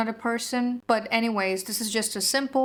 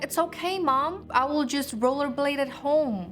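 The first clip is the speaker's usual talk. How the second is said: put-on higher-pitched retelling of a kid reassuring mom; lightly voiced kid, pitched up; reassuring child; 5 semitones higher than usual. Kid telling mom she'll rollerblade at home, lightly acted reassurance. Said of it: "I was like".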